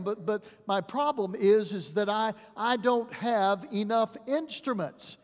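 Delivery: insist, flustered and pressed; stammering doctor under pressure; doctor pleading. Retold or imitated. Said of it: "And the doctor replied".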